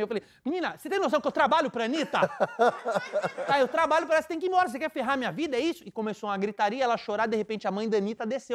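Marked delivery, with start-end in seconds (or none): 0.4-2.2 higher-pitched exasperation, half laughing; mock agitated outburst. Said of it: "eu comecei a me alterar também". 3.5-5.8 high, rushed exasperated plea; mock agitated outburst. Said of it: "eu comecei a me alterar também".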